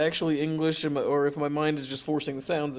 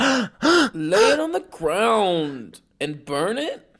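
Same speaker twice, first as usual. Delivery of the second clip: slow eerie voice; 6 semitones higher, 6 dB louder, much slower than usual. Acted. Acting eerie voice.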